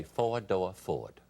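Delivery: slow Southern drawl; unhurried Deep South accent. Shown as a demonstration. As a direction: draw the vowels out in a Southern accent. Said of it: "How do you do a Southern accent?".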